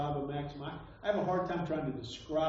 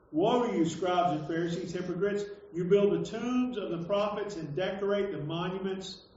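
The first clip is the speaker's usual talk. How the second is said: declaimed scripture reading. Acted. Preacher reads Jesus's woes to hypocrites, declaimed. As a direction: proclaim it as a rebuke from scripture.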